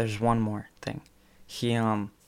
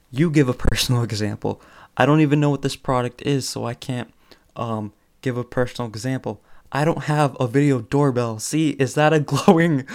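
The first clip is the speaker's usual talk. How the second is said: mock indignant retort; 3 semitones higher, 4 dB louder than usual. Comedian talking back to ad directions, mock indignant. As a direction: talk back to the ad copy, half laughing. Retelling comedian's defiant ad read.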